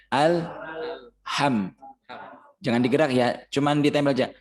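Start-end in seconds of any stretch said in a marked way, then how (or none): 0.1-1.7 alham with the tongue pressed on the teeth; alham, tongue stuck to the upper teeth; held alham. Shown as a demonstration. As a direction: keep the m of alham held and still.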